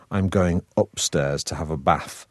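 slow northern English accent; broad Manchester vowels, short A in "bath". Shown as a demonstration. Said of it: "how I would have said it in my original accent".

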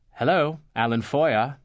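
posh Alan. Retold or imitated. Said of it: "the conversation went like this".

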